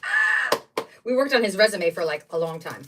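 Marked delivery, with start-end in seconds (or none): 0.0-0.6 high, sudden squeal of joy; a delighted shriek at good news; excited squeal. Retold or imitated. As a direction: let out a short thrilled squeal. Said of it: "I was like".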